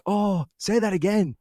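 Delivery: bad Canadian accent. Traveller imitates Canadians hearing his accent, in bad Canadian accent. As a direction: put on a poor Canadian accent, drawn out. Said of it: "worst Canadian accent ever".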